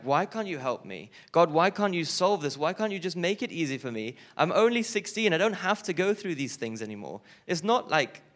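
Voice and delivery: put-on high, pleading teenage lament; distressed sixteen-year-old pleading with God; anguished crying out. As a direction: cry out to God in despair, pitch climbing. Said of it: "crying out".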